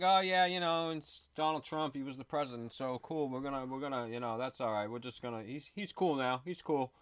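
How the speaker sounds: high, loud mock voice of a fickle fan; mocking impression. Mocking those who flipped on Trump in a high loud put-on voice. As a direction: sneer at people suddenly cozy with Donald Trump. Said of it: "everybody's like, all of a sudden, like".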